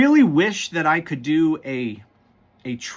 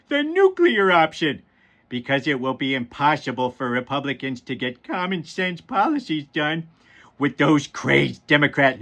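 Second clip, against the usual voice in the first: lightly voiced cartoon dad reading a political post; a rough, amateur cartoon impression, stretching key words; Homer Simpson. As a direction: attempt a dopey cartoon voice while reading aloud. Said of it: "in my best Homer Simpson voice".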